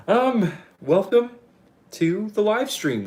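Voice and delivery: high, loud, slow announcer welcome; excited welcome. Real, not acted. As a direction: stretch out the welcome grandly. Formal welcome, drawn out.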